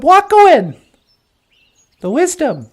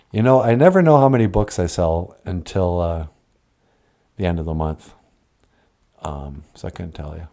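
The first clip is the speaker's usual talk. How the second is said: much lower, odd voiced character; low puppet voice; 6 dB quieter than usual. Puppet answering Natasha, deep voiced character.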